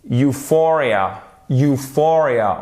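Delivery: slow Euphoria, you-FOR-ia; stress on second syllable. Shown as a demonstration. Teacher drilling for learners, stressed second syllable. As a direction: clear "you", then weight on FOR in Euphoria. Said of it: "sur notre deuxième syllabe".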